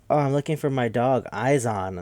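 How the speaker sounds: a hint of a sweet, vague old lady. Narrator voicing old Missus Paley looking for her dog, lightly old lady. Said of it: "from the old lady side".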